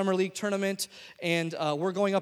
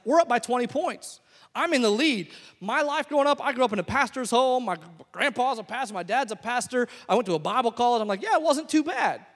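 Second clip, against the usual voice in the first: self-satisfied; 4 semitones higher than usual. Retold or imitated. Voicing someone pleased with their past.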